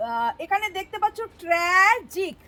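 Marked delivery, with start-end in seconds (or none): 1.4-2.4 ট্র্যাজিক in two separate beats, ট্র্যা, then জিক; split into syllables. Shown as a demonstration. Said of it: "ট্র্যা একটা syllable".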